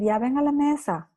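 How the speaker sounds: put-on the way not to call a child to the table; bossy command. Shown as a demonstration. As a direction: snap it as an impatient order. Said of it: "cosas de no decir".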